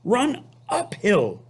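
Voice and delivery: high, slow sheep voice; slow high sheep call; sheep crying out. Acted. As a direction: bleat the advice up high. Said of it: "cried the sheep".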